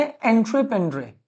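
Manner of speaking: एंट्रेप्रेन्योर said as "on-screen French", en-tre-pen-dre; French word pronunciation. Shown as a demonstration. Teacher giving students the French source word, careful French word pronunciation. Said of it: "French में क्या बोलते थे".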